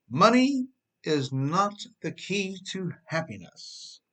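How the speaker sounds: a put-on voice for a broke person's saying; smug quote. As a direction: quote it like a comforting cliché. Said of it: "said the person with very little money".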